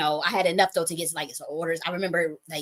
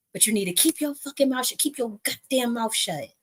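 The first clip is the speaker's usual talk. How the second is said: high-pitched fed-up order, stretched on the last line; imitated exasperated scolding; 5 semitones higher than usual. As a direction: channel a pissed-off protector. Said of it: "channel the energy of how he said it".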